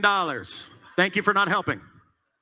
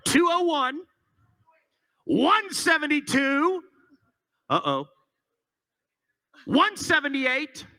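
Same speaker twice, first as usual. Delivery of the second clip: auctioneer; 4 semitones higher than usual. Acted. Calling out bid numbers.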